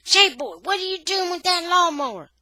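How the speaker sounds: high, loud accusing holler; yelling. A narrator's reading. Boy confronting J-Boy over the lawnmower, yelling. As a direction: shout it while giving chase. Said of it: "I'm yelling".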